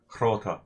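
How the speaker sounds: "Hrota" with a rough H sounded before the R; Nordic-style pronunciation. Shown as a demonstration. Gamer shows the needless version, "Hrota" with a Nordic H. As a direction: lean into the Nordic H at the start of "Hrota". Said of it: "I had to go like".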